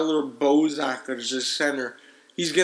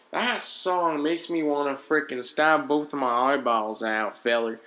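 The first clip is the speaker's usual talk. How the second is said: hint of a southern accent. Real, not acted. Host griping about a hated song, slipping into southern accent. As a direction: slip lightly into a southern twang. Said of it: "where the southern accent just came from".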